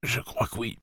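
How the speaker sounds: put-on high, soft young boy; a tired, hurt young boy. Narrator voices the boy Jake.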